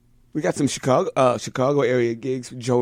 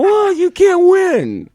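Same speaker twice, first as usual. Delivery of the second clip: high, loud and slow through laughter; laughing; 9 dB louder, slower than usual. Real, not acted. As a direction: deliver it cracking up. Laughing punchline of a story.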